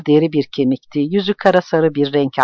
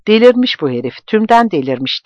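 angry repeat; 6 semitones higher than usual. Acted. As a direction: spit out that the fool has gone mad. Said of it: "diye yineledi". ("Delirmiş" yüksek ve öfkeli)

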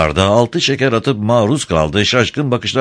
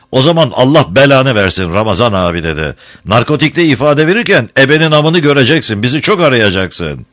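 angry threat; 4 semitones higher, 4 dB louder than usual. Acted. Harun curses and threatens Ramazan.

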